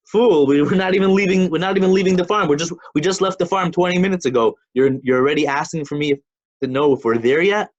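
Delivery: put-on exasperated parent telling off a child; scolding father. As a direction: scold the nagging kid like an annoyed dad. Father scolds son in parable.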